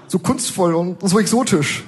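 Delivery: drawn-out mock rapture; gushing. Kind lady admiring the signature, slow hammed-up gushing. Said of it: "schwärmt die nette Dame".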